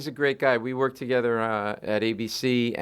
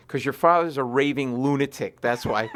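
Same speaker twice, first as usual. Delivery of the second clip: wry laughing jab. Retold or imitated. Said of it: "my wife's really funny".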